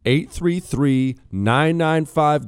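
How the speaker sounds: slow, deliberate phone number; slow number read. Acted. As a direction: spell out the number slowly. Phone number repeated slowly.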